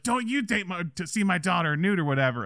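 high-pitched retold warning; lightly hammed-up indignation; mock angry father. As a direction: imitate an outraged dad, voice jumping up. Imitates enraged father.

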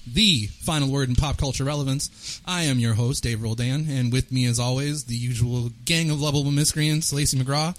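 upbeat host welcome, big hello; podcast host intro. Acted. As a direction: open the show like a radio host. Host opens the podcast episode.

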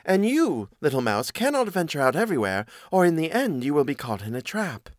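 lightly voiced cat, lifted at first; cautioning cat. Cat warning little mouse of traps, lightly voiced cautioning cat. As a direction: warn like a storybook cat.

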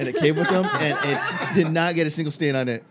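barely holding back laughter; laughing in character. Acted. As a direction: press on with the pitch while cracking up. Botched pitch, table laughing.

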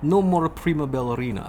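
put-on mild Russian accent. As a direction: lightly slide into a Russian accent. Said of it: "sliding into that Russian accent".

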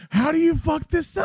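high-pitched imitation of incredulous disbelief; mock exasperation. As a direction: act out a baffled boss, pitch shooting up. Imitating exasperated mobster in film.

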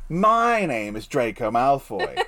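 hammed-up snobby schoolboy intro; mock Draco voice. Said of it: "that line works as a joke".

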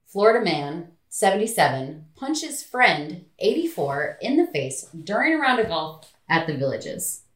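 punchy headline read with separated phrases; news headline read. Acted. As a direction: announce the headline piece by piece. Reads a news headline aloud.

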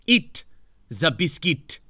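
Charles's voice. Retold or imitated. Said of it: "he said".

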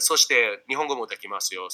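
speaking Japanese. Shown as a demonstration. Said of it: "But then again, I could".

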